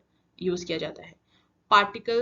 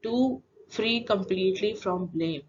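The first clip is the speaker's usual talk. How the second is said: slow, deliberate quiz-question delivery; slow question reading; much slower than usual. Shown as a demonstration. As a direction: read the clue slowly and clearly for the class. Teacher repeats the quiz question.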